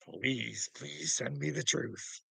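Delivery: soft, slow pleading prayer; mock prayer. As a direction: beg upward quietly, half in jest.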